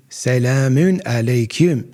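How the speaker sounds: "Selamun alaikum" said slowly, Turkish style; Turkish pronunciation, slow. Shown as a demonstration. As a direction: draw out "Selamun alaikum" like a Turk. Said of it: "That's how they say it".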